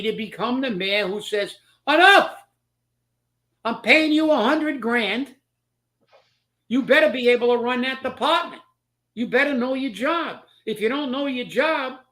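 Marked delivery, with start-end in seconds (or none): 1.9-2.4 loud, high exclamation in a mayor's voice; acted exasperated shout; mayor's firm outburst. 3.6-12.0 higher-pitched, emphatic boss laying down the law; deliberate, insistent ultimatum; mayor's stern warning. Retold or imitated.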